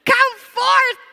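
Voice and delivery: high, loud, slow ringing call; drawn-out commanding cry of the name; commanding shout. Retold or imitated. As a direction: call the dead man out with full force. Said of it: "Tapos bigla siya sumigaw".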